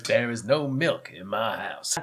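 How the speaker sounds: slow, stern mother voice. Retold or imitated. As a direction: lay it down slowly, sternly. Imitating mother slowly.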